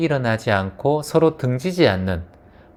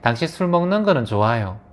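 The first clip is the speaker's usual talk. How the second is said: conciliatory demo. Shown as a demonstration. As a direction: model an accepting, non-blaming tone. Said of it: "그렇게 하지 마시고". (비난 없이 차분히 인정하는 말투)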